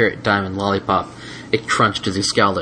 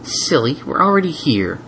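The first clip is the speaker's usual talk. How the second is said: amused Twilight; 5 semitones higher than usual. Acted.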